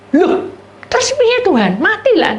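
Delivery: high, loud alarmed question; alarmed cry. Retold or imitated. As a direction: panic as you ask what now. Panicked dialogue with God.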